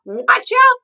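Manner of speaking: very loud, high alarm cry; shouted warning. A narrator's reading. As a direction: yell it as danger bursts out. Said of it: "the Duke shouted".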